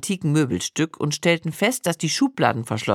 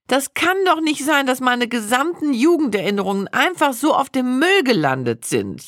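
high, tearful wail of despair; wailing lament; 8 semitones higher than usual. Retold or imitated. Wife wailing in the cellar over her lost diaries, high and tearful. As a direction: voice climbs high, close to tears. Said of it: "jammerte ich".

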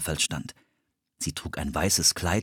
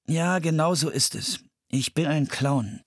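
through gritted teeth; 9 semitones higher than usual. A narrator's reading. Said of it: "meinte Philipp zähneknirschend".

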